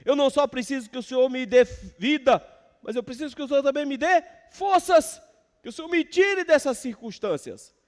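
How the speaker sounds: psalmist's prayer. Acted. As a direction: pray it up high and loud as the psalmist. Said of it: "quando o salmista diz".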